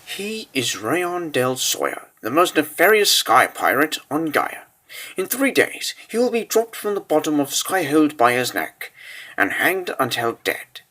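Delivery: hushed account. Acted. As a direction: describe the condemned man softly. Describing the condemned prisoner.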